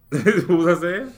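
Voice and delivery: laughing at herself, slow. Real, not acted. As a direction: chuckle through it. Laughs after losing track.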